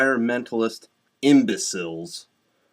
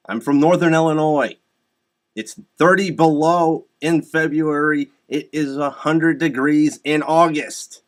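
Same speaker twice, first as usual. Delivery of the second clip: raised, insistent voice; emphatic rant; 3 semitones higher, 5 dB louder than usual. Real, not acted. Man from Northern Illinois rebutting global warming, loud and emphatic. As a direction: hammer the point home, loudly.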